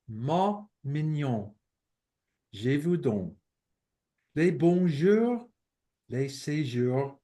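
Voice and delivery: slow, measured verse reading in French; deliberate, lilting French poetry reading; French poem recitation. Acted. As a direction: recite each short line separately, with pauses.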